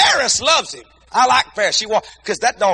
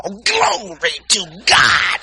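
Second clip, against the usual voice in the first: drawn-out praise; much slower than usual. Pretend. Mock praise at the mall trip.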